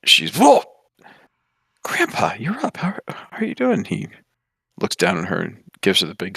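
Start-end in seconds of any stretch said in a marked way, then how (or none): 0.3-3.8 excited whoa. Acted. Ginny greets her grandfather, excited.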